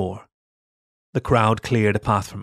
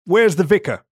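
higher, louder demand; louder demand to the nephews; 7 semitones higher, 5 dB louder than usual. A narrator's reading. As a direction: insist on an answer. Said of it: "I demanded".

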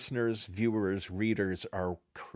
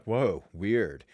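amazed; 4 dB louder than usual. Retold or imitated. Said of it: "just being like".

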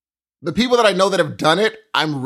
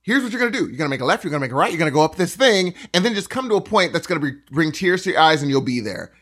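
rehearsed spiel; much faster than usual. Retold or imitated. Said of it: "you've practiced this".

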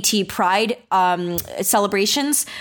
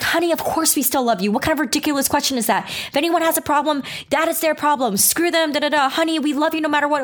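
much higher, sweet doting aunt voice; supportive aunt; 7 semitones higher, faster than usual. Retold or imitated. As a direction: gush reassurance like a loving aunt. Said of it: "She's like".

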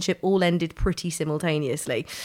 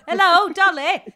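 screaming; 9 semitones higher, 5 dB louder than usual. Pretend. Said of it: "Oh, screaming".

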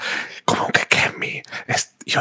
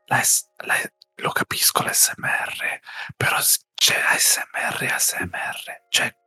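whispering. Real, not acted. Whole ASMR podcast whispered.

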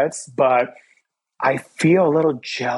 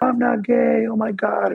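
high squeaky defensive denial; mock panicked denial; 8 semitones higher than usual. Teen self denying classmates' accusation, high and flustered. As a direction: insist you're not gay, voice jumping high.

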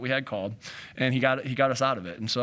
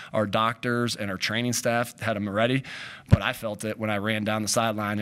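ordinary talk, nothing marked

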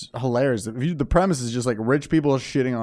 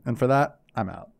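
Kevin impression; 3 dB quieter than usual. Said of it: "always talks like this".

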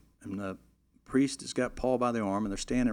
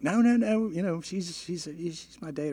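protesting groomsman; 7 semitones higher than usual. Retold or imitated. Drunk groomsman voiced.

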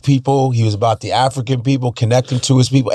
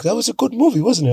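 imitating a singer; 8 semitones higher, faster than usual. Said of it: "he was like".

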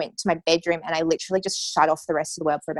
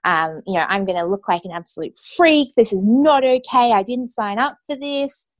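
raised, higher-pitched angry outburst, slowing at the end; young patient railing at the news, angry and loud; retold furious rant; 5 semitones higher, 4 dB louder than usual. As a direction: relive the rage of being told, loud and high.

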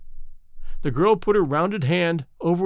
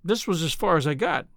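wan smile. Acted. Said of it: "she smiled wanly".

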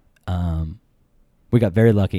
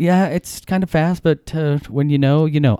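higher, hesitant pleading; nervous suitor; 4 semitones higher than usual. Retold or imitated. Suitor answering his girlfriend's dad on the phone, nervous. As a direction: stumble upward, trying to justify yourself.

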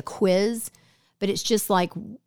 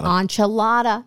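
Southern drawl; 2 semitones higher, 4 dB louder, slower than usual. Shown as a demonstration. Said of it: "that you say so Southern".

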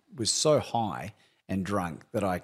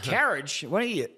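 mock American asking "Courage?" as "carriage", pitched high; imitating puzzled Yanks; 7 semitones higher than usual. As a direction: play a baffled American, voice jumping up. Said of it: "'cause they're like".

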